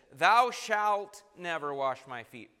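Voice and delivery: slow, forceful weight on "Thou shalt"; emphatic decree. Retold or imitated. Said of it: "Very emphatic, emphatic words".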